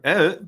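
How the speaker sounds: put-on accented grunt. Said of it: "I think that's a pretty good accent".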